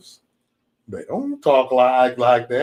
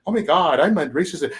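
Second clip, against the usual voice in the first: mock Becky; 3 semitones higher than usual. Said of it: "The Beckys ... smile all the time".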